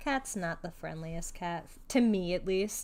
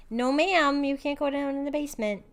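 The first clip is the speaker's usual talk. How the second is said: firm loud no to a pet; scolding the cat; 6 semitones higher, 4 dB louder than usual. Real, not acted. Owner to cat at the basement door, firm and louder.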